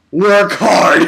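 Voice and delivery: mock shout. Acting out Mashiro's text message to him, in a mock shout. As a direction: belt it out as a comic punchline.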